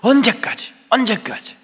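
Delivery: high, loud lament to God; anguished tearful plea. Acted. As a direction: act out a desperate worshipper's prayer. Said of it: "울면서 오신 분이 계실지 몰라요". (애타게 부르짖는 기도)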